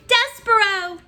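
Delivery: high, loud joyful cry; shouted. A narrator's reading. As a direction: call his name out with joy. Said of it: "then she shouted it".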